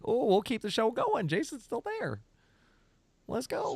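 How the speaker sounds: mock-cheery announcement that the stream goes on; retold hype. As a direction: perk up and rally the show. Retold switch to hype host.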